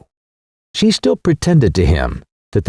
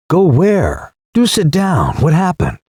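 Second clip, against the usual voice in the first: startled; 6 semitones higher than usual. Acted. Son startled by mother's outburst.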